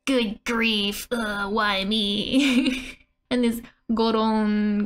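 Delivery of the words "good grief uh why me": understated groan, slowing at the end; mock exasperation. Translating mo as good grief, mild mock exasperation. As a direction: sigh it out in mild play despair. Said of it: "used for exasperation".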